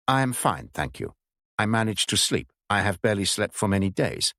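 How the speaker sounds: a lightly voiced German man faking English; stiff, careful English with a hint of a German accent; appalling German accent. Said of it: "His accent was appalling".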